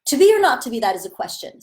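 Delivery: upset reading, high loud start that falls away. Shown as a demonstration. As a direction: let the upset feeling push the line. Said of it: "I'm feeling upset".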